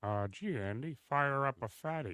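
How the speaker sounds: nerdy, soft-spoken clerk voice. Showing how he does the Mayberry town clerk smoking pot: Howard Sprague impression. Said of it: "I used to do him smoking pot".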